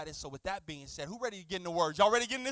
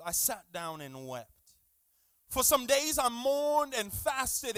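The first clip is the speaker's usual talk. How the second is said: scripture reading. Real, not acted. Reads scripture aloud to congregation.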